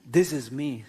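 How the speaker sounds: puffed-up self with a laugh; proud with a laugh. Acted. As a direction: show off your big self, chuckling. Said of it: "See how big I am".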